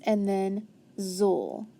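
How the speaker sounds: slow blending of "zul"; sounding it out. Shown as a demonstration. Teacher blending syllables for a child, slowly. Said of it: "So n".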